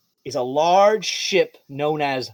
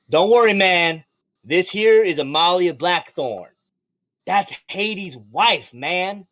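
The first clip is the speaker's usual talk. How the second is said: laid-back reassurance; 3 semitones higher, slower than usual. Acted. Mistletoe reassures the guard.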